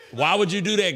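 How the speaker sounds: words half laughed out; amused laugh through the question; chuckling at friends passing by. Real, not acted. Laughing at the interruption.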